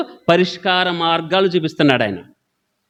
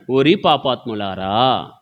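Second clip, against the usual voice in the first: blunt rebuke; 5 semitones lower, slower than usual. Retold or imitated. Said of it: "డైరెక్ట్గా అంటున్నాడు".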